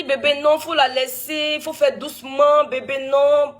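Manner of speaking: high, drawn-out soothing plea; imitated pleading. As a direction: imitate a husband urging restraint, slowly and high. Retells husband urging her to go easy.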